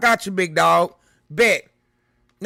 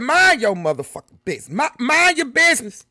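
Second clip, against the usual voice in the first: quoted telling off; 3 semitones higher, 4 dB louder than usual. Retold or imitated. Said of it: "He said".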